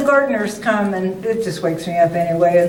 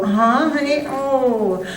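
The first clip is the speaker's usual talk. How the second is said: fake attentive uh-huh; 5 semitones higher, slower than usual. Shown as a demonstration. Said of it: "and then you go".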